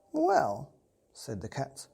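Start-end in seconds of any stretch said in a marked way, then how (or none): 0.1-0.7 high, loud drawn-out Well. Acted. Cat hinting to the boy, a high drawn-out well. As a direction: tease it out knowingly.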